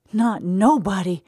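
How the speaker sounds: put-on high, slow childlike vow; eager promise. A narrator's reading. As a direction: promise earnestly. Eddie promising secrecy.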